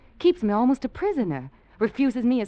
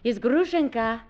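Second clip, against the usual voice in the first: fake Russian accent; 5 semitones higher than usual. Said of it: "What happened to your Russian accent".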